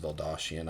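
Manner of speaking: Veldashian said in a plain American accent, unsure of it; a tentative try at Veldashian in an American accent; unsure pronunciation. Shown as a demonstration. Vlogger admits he may be mispronouncing the brand, tentative American accent. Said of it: "that's my, you know, terrible American accent".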